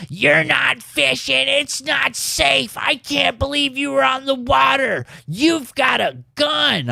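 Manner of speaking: mimicking her panicked scolding, half-shouted; mock frantic lady. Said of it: "and she says".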